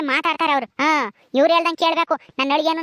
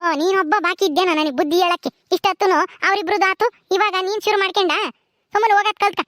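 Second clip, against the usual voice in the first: higher-pitched, irritated wife; indignant comeback, pitched up; cross retort; 4 semitones higher than usual. Acted. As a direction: turn on the husband and scold him. Wife snaps back at husband.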